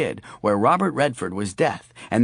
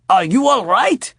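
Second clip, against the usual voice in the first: put-on old lady voice; 9 semitones higher, 7 dB louder than usual. Worried old lady at door.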